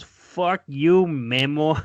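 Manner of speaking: a mock yell of a curse, pitched a bit up; retold yell. Angry girlfriend yelling a parting curse at her man, retold as a mock yell. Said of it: "she's yelling some shit".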